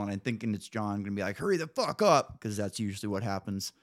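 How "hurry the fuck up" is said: higher-pitched, exasperated hurry-up; mock-yell it to rush a late friend; impatient mock yell. Host imagining snapping at his friend on the phone, impatient mock yell.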